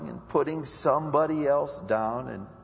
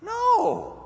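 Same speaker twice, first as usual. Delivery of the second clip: sharp no. Real, not acted. Preacher cries out correction.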